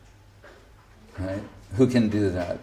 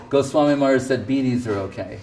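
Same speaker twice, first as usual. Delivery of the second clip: quick, smug mock gossip; faster than usual. Critics spreading his words online, fast mock gossip. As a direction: parrot it like a gleeful rumor-monger. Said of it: "they will say".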